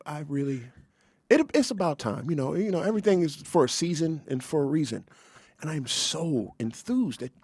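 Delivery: gently overjoyed, like praising the Lord; happy. Pretend. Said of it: "now say it happy".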